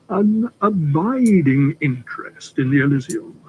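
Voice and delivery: "abiding" leaned on slowly and darkly; emphasis on abiding. Acted. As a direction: dwell on "abiding" like a funeral word. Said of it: "curious emphasis on the word abiding".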